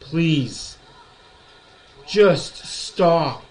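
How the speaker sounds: scold, rising into a rant; calm turning angry. Real, not acted. Scolding chat over topic.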